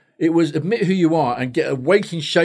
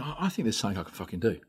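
hushed, quick, lower-pitched musing; private thought; 5 semitones lower, 12 dB quieter, faster than usual. Retold or imitated. Therapist thinking over the notes, quiet musing. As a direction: murmur it as a dawning idea.

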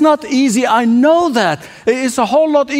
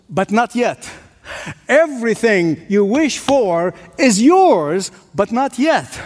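rhythmic sermon refrain with long pauses; measured pulpit oratory; emphatic preaching. Real, not acted. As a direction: build each promise, then set down the catch. Preacher's repeated rhetorical promise.

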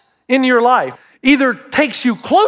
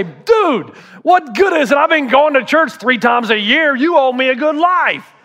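higher, indignant demand; entitled complaint; 4 semitones higher than usual. Pretend. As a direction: whine at God like he owes you. Entitled churchgoer complaining to God.

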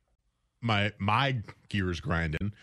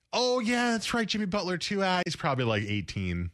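dismissive; 4 semitones higher than usual. Retold or imitated. Mocking dismissive pundits.

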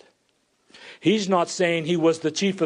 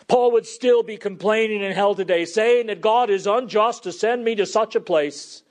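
raised, higher pulpit voice; forceful preaching; 7 semitones higher, 4 dB louder than usual. Real, not acted. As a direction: press the point with preacher's fervour.

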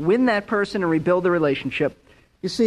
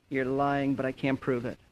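low, soft inner voice; inner thought; 5 semitones lower, 8 dB quieter than usual. Retold or imitated. Pastor voicing his suspicion to himself, low and hushed. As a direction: say it under your breath like a private thought. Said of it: "And in my mind".

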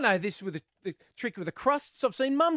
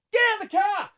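much higher, loud shouted order; 12 semitones higher, 6 dB louder, faster than usual. Retold or imitated. Dad yelling at the kids at school drop-off, loud shout. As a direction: bark it out the car window.

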